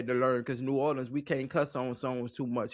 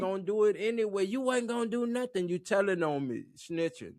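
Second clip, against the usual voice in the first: higher-pitched put-on protest at a tattling sibling; mock sibling squabble; 8 semitones higher than usual. Guest acting out quarrel with bossy sisters, mock protest. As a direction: play-act an aggrieved kid brother.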